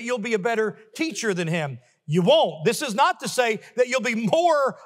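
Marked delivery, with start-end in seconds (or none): 2.1-2.6 WON'T punched loud; emphatic reply. Acted. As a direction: hit "won't" hard each time. Repeated answer, punched loud.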